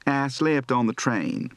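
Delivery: slow North Carolina, "I" as "ah", "slept" as "slipt"; North Carolina accent. Shown as a demonstration. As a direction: Carolina drawl. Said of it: "North Carolina".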